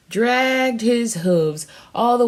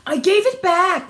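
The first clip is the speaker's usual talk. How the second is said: put-on higher, louder child's protest; crying out; 9 semitones higher, 5 dB louder than usual. A narrator's reading. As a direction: cry it out defensively like a child. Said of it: "Rachel cried".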